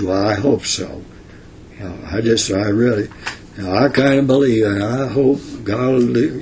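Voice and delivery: hurried, unsure mumbling hope; forlorn hope. Retold or imitated. Preacher mocking believers' doubtful hope, wavering and unsure. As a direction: sound half-hearted and doubtful, rushing it. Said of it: "a forlorn hope that says".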